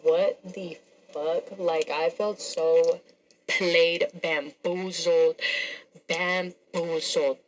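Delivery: slow, drawn-out words with gaps; stunned disbelief. Retold or imitated. Woman recounting being played by her date, stunned and slow. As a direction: stretch each word as if it is sinking in.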